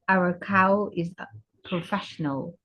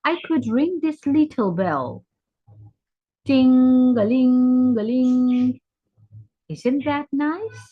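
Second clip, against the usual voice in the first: high-pitched, hopeful rooster pitch; eager rooster candidate; 5 semitones higher, 5 dB louder than usual. Acted. Rooster offers the cow a bell instead, eager. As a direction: sell it high, drawing out the ting-a-ling.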